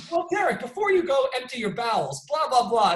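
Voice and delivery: high mock announcer tone; a hint of a TV reporter; mock interviewer. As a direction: play the reporter lightly. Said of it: "is how they started".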